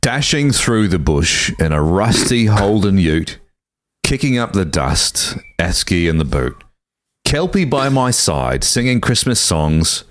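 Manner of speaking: slow recital of an Aussie Christmas song; Australian accent. Acted. Reading an Aussie Christmas song to co-hosts, Australian accent. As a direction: read it slowly in a put-on Australian accent. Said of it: "read it to you in an Australian accent".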